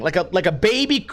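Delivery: ordinary talk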